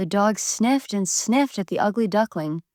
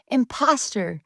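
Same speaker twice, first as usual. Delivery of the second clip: higher, louder yip; yipping; 5 semitones higher, 3 dB louder than usual. A narrator's reading. Hen chasing the duckling out, high yipping shout. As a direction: snap it out like an angry hen. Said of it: "yipped the hen".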